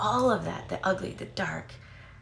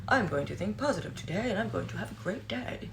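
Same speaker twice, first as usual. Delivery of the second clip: mock positive self-talk; 3 semitones higher than usual. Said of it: "You can't just be like".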